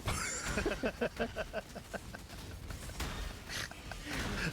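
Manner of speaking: high breathless wheeze of a laugh; long airy burst of laughter; wheezing laugh. Real, not acted. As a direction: crack up silently. Big laugh at team leader's line.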